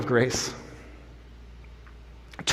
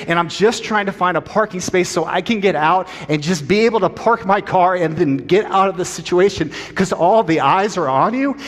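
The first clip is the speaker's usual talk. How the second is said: intense pleading; 4 semitones higher than usual. Retold or imitated. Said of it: "and it's intense".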